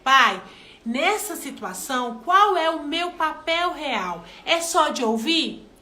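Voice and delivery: slow, earnest prayer to God; praying aloud. Shown as a demonstration. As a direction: pray it slowly, asking for guidance. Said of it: "orar e pedir ao Senhor discernimento". (oração lenta e sincera)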